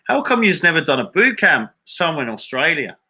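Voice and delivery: put-on high-pitched Australian accent; mock Australian accent. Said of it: "that's a terrible Australian accent".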